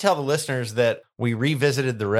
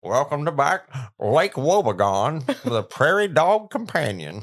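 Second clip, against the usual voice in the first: slow, swooping, higher-pitched show welcome; spoof radio host; 4 semitones higher, 3 dB louder, slower than usual. Acted. Host parodying a radio show after a joke, hammed-up announcer.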